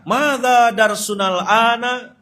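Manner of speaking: high, loud, drawn-out Arabic question; teacher quizzing class. Retold or imitated. Ustadz asking his new class in Arabic, high drawn-out teacher voice. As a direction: call out a slow classroom question.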